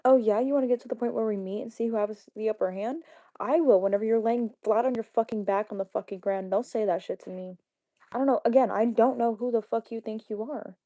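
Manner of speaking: loud, heated confrontation; angry threat. Real, not acted. Streamer answering a viewer's challenge to meet, loud and angry. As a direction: come back loud and threatening.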